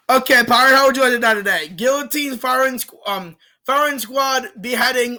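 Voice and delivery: lightly voiced official offering death options; mock executioner. Executioner offering ways to die.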